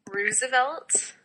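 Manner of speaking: Roosevelt with an OO, like "ROO-zuh-velt"; own odd pronunciation. Shown as a demonstration. Podcaster confessing a word said wrong, Roosevelt with an oo. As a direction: say Roosevelt with first syllable rhyming with "who". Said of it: "words that apparently I say incorrectly".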